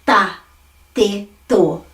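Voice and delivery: ta, te, to with the tongue flat on the palate; flattened T. Shown as a demonstration. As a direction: say ta, te, to singly with flattened T. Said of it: "I'm flattening my T and making it".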